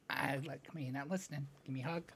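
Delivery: soft, hushed pleading; quiet coaxing. Real, not acted. Coaxing child quietly off-mic.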